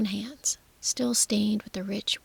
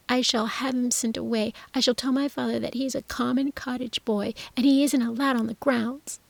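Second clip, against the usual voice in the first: put-on high loud jealous boy; jealous outburst; 3 semitones higher, 5 dB louder than usual. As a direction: whine and threaten jealously. Jealous Colin shouts.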